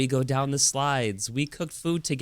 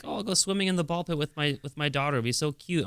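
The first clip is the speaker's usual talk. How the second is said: higher, giddy daydream voice; excited; 6 semitones higher than usual. Retold or imitated. Dad dreaming of swimming with daughter, giddy. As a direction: gush about the cute plan. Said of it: "I'm so excited".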